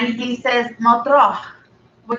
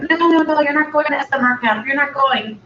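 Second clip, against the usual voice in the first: higher, fast, flat-out no; firm refusal; 4 semitones higher than usual. Retold or imitated. Dad refusing his daughter's summer camp wish, firm. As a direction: shut it down like a strict dad.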